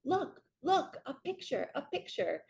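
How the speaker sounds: put-on high, excited little girl showing a picture; little niece voice. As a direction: play the four-year-old tugging at you. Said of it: "she's like".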